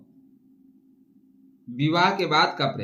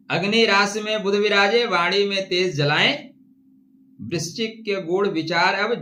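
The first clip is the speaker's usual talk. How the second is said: declaimed Hindi couplets; rhymed verse recitation. Acted. Astrologer reciting verse for Scorpio viewers, declaimed. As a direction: recite it in rhythm, landing each rhyme.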